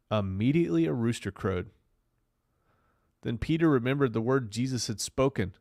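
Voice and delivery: Bible story read with big swings in pitch; dramatic scripture reading. Acted. Streamer telling viewers a Bible story, dramatic reading. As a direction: declaim the verses, leaning hard on key words.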